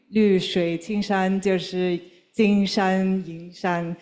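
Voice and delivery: slow Mandarin phrase with an English accent; careful non-native Mandarin; foreigner speaking Mandarin. Real, not acted. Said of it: "Sorry, my Chinese is terrible".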